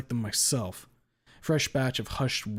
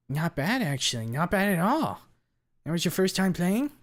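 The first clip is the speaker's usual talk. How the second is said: high, excitable nerd voice; higher voice, swooping up with approval; impressed gamer nerd; 8 semitones higher, 5 dB louder than usual. Acted. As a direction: pitch it up, pleasantly surprised by a newcomer. Buster, impressed after the match.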